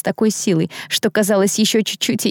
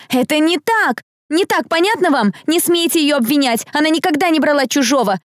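high, upset, pleading outcry; tearful protest; 8 semitones higher than usual. A narrator's reading. Girl defending her friend from accusers, tearful protest. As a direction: protest on the edge of tears. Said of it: "В голосе Дэрил слышались слёзы".

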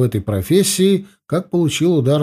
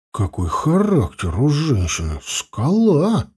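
tearful; 3 semitones higher, slower than usual. Acted. Emotional remark, crying heard.

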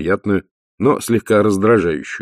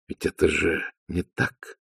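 quiet; 2 semitones lower, 8 dB quieter than usual. A narrator's reading. Vimes moving closer to challenge Dee, quietly. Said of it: "тихо произнёс он".

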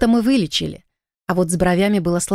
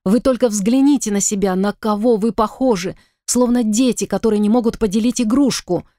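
stern raised scolding voice; 3 semitones higher than usual. Acted. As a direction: scold two squabbling men into calm. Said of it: "повысила я голос".

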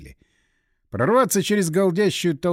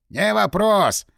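delighted cabman, louder and higher; gladly agreeing; 6 semitones higher, 5 dB louder, much slower than usual. A narrator's reading. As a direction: jump at the extra fare brightly. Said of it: "обрадовался дополнительному приработку извозчик".

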